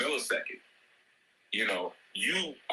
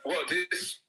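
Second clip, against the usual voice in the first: higher, mock-outraged parent, fast at the end; exasperated parent rant; 7 semitones higher than usual. Parent mock-scolding a child who says he is thirsty. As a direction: scold the lazy kid, half-laughing.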